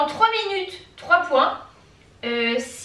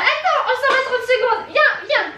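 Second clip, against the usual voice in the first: laughing; 8 semitones higher than usual. Real, not acted. Leading dog away, laughing.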